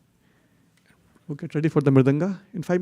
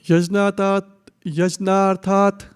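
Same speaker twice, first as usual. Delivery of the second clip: staccato; 4 semitones higher, slower than usual. Shown as a demonstration. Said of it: "one word at a time".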